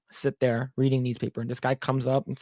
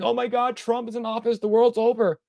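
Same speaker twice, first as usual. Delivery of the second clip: mock wailing; 7 semitones higher than usual. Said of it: "probably crying the same thing".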